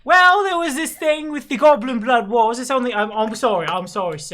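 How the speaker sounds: animated landlady, starting high and tapering; rambling tavern owner. Acted. Tavern owner recalling her youth in the wars, rambling. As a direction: launch into the tale, then apologise.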